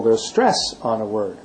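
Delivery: "stress" picked out, "on a word" dropping away. Shown as a demonstration. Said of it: "I just stressed the word stress".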